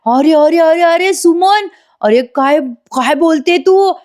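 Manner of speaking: high, stretched-out teasing husband; hammed-up fake amusement; mock laughing disbelief. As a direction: play-act amused protest, drawing out the vowels. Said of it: "मोठ्याने हसतो".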